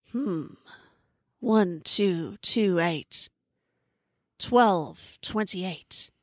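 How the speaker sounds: very slow, pondering each number; thinking aloud to himself. A narrator's reading. Alpha guy puzzling over the number clue, thinking aloud. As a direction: work it out aloud, one piece at a time. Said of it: "starts talking aloud to himself".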